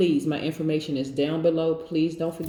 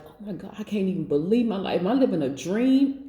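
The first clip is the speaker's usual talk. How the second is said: quick, higher, delighted disbelief; amazed disbelief; 3 semitones higher than usual. Retold or imitated. Aries fan amazed at their own life, excited. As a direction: gasp it out like you can't believe your luck. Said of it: "y'all over there like".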